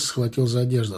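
usual speaking voice

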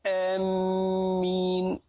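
آمين said with a long vowel and a doubled, stressed mim. Shown as a demonstration. Showing the wrong doubled mim in آمين. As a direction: lean hard on the mim in آمين. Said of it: "من الخطأ التشديد في الميم".

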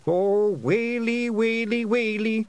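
high, drawn-out lament; high-pitched keening little-man voice; wailing. A narrator's reading. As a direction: wail in comic despair. Twiddler wails in dismay.

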